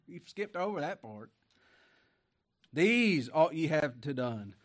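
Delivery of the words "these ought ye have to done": emphatic preaching. Acted. Preaching scripture forcefully.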